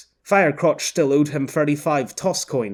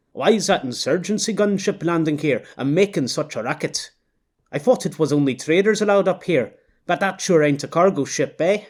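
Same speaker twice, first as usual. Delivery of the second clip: bright, higher Canadian man's voice with a curious edge; Canadian accent; 4 semitones higher than usual. Acted. Canadian onlooker asking his wife about the gunship, Canadian accent. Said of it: "concentrated on the accents".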